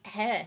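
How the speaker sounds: "he" said as a short HEH; short-E pronunciation. Shown as a demonstration. Telling viewers what she assumed, "he" with a short eh vowel. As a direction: say "he" like the start of "head". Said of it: "I thought it was always".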